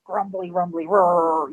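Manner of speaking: deep, rumbly growl of a big bear; Papa Bear voice. Retold or imitated. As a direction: rumble it low, down in the chest. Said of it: "big Papa Bear voice".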